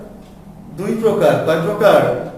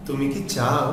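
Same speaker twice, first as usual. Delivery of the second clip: brief "কি", weight on "চাও"; low, soft yes-or-no question with quick "কি"; short কি; 4 semitones lower, 6 dB quieter, slower than usual. Shown as a demonstration. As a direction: pass lightly over "কি" to a longer "চাও". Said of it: "ছোট করে দ্রুত উচ্চারণ করতে হবে".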